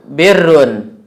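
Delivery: birrun with kasrah, clear short i; Arabic pronunciation demo. Shown as a demonstration. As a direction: say birrun carefully, i vowel after b. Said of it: "Ada lagi". (ucapkan birrun dengan kasrah jelas)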